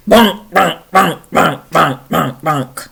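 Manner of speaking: heavy goat tread on each bonk; evenly stamped, weighty bonks; big heavy footsteps. Acted. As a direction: thud each syllable like a hoof. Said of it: "he's big and he's heavy".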